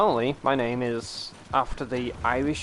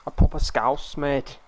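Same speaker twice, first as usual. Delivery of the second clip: rough stab at Scouse; lightly put-on Scouse; attempted Scouse accent. Shown as a demonstration. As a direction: try a proper Scouse accent. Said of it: "I can't probably do it".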